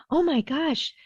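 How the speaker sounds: high, animated voice matching a tantrum; matching her loudness. Retold or imitated. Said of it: "as loud as she was".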